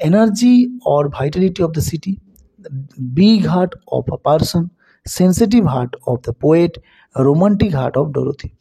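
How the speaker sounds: reading each answer choice slowly and deliberately; slow option reading. Shown as a demonstration. Teacher reading quiz options slowly to the students. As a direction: spell out the options one by one, unhurried.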